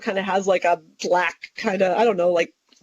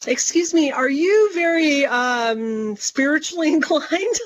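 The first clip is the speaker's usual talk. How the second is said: higher, tentative approach to a stranger with a nervous laugh; retelling a nervous opener to a stranger, pitched up and polite; nervous politeness; 5 semitones higher than usual. Retold or imitated. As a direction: ease in awkwardly, pitch up, half laughing.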